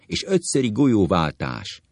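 a touch of heated raising of the voice; getting a bit worked up over the duel terms; flushing with anger. Acted. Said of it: "Nekivörösödve".

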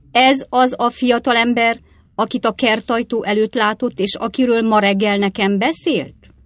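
put-on high, loud old woman's voice; old lady cutting in. A narrator's reading. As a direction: break in like an indignant old lady. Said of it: "az öreg néni". (közbevágó öreg néni, magas hangon)

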